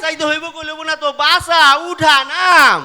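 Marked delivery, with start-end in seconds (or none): 1.2-2.8 loud pushy commands; urgent orders. Acted. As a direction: bark at him to get moving. Father urging son to act. (জোরে তাড়া দেওয়া)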